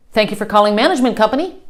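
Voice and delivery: quick, run-together phone greeting; rushed company greeting. Retold or imitated. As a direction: rattle it off like a busy receptionist. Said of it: "so what they say is".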